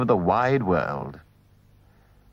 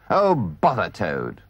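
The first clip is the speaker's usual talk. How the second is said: savage; 4 semitones lower, slower than usual. Acted. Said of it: "said the rat savagely".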